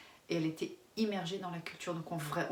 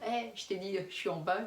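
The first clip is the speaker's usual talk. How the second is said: policing parent; 3 semitones higher than usual. Retold or imitated. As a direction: imitate policing the kids from downstairs, slightly raised voice. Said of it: "en train de faire genre, euh, le policier". (parent qui joue au policier, ton un peu haussé)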